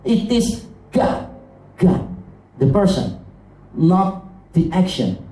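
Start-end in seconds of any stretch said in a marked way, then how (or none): 0.0-2.1 God set apart by pauses and repeated; stress on God. Shown as a demonstration. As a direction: underline God, giving it its own beat. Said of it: "underline the emphasis".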